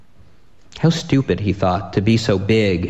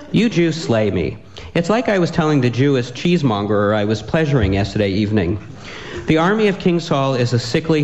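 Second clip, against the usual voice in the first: boastful giant taunt; 3 semitones higher than usual. Acted. Goliath taunting, playing to audience.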